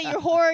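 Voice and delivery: "whore" punched loud in disbelief; stress on whore. Retold or imitated. Friend repeating the crude word, loudly stressed. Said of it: "What'd you say?".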